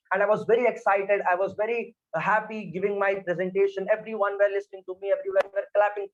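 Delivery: up and fast, bubbling with excitement; excited demo. Shown as a demonstration. Trainer demoing excitement to students, up and fast. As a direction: gush about a great speech. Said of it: "my voice is also up and I'm also talking very fast".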